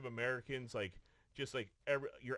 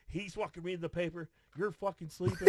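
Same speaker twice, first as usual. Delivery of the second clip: mock angry yell; 6 semitones higher, 5 dB louder than usual. Director yelling at sleeping crew.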